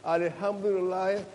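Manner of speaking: rapid Arabic recitation rattled off fast; Quranic recitation. Shown as a demonstration. Former Muslim pastor shows the congregation how he recited, fast and rhythmic. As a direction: race through the memorized verses like a daily chant. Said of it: "You know, like that".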